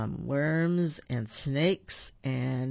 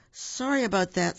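a higher, perky squirrel; 4 semitones higher than usual. Acted. Shirl Squirrel apologizes to Buford, lightly perky. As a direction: bounce it like a chirpy squirrel.

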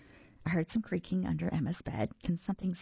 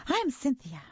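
higher-pitched monster rasp; lightly rasped monster voice, pitched up; 9 semitones higher than usual. A narrator's reading. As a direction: introduce yourself as a rasping monster. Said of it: "The second monster rasped".

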